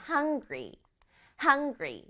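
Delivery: "hungry" with the weight on "hung"; stress on hung. Shown as a demonstration. Teacher models the word for the children, "hung" stressed in "hungry". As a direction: lean on the first syllable of "hungry". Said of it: "hung 부분이 강조예요".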